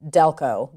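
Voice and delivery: Delco said with the local Delco vowel; Delco in Delco accent. Shown as a demonstration. Talking about her show's accent, Delco in local sound. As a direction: Delco with the Pennsylvania twang. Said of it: "they don't say".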